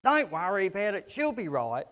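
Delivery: a light, offhand Australian twang on the catchphrase; casual Aussie. Retold or imitated. Preacher mimicking a flippant Aussie brush-off, light Australian accent. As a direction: toss it off like a carefree Aussie mate. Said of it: "all this sort of flippant thing that we say".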